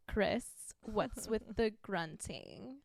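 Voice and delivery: slow, drawn-out put-on drawl; drawling impression. Host quoting lines to her friend, slow drawl. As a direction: drag the quote out lazily.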